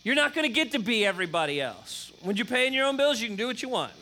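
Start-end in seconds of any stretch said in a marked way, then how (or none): 0.0-2.1 put-on louder, firm reply to a teen; firm parent. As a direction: shut down the complaint with a firm parent voice. Parent answering a teen's complaint.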